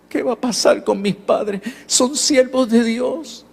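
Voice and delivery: a boy pleading through tears, imitated gently; crying boy. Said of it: "y volvió a llorar y me dijo".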